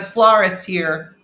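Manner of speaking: loud, stretched-out mock proclamation; big-letters announcement. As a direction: announce the job loudly and slowly. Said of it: "She's using big letters".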